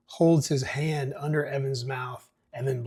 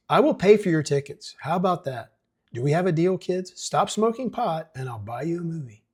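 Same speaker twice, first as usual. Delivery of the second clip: louder, higher coaxing mayor; bargaining mayor; 5 semitones higher, 4 dB louder than usual. Acted. Mayor bribes teens with movie tickets, loud and coaxing. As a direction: sweeten the deal for the kids.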